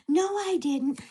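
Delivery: lightly put-on innocent protest; imitated neighbor's denial. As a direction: deny it like the accused neighbor. Acts neighbor's denial in argument.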